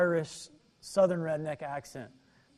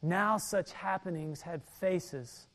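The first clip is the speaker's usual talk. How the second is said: hushed testimony reading; reflective reading. Acted. Reading Corrie ten Boom's words.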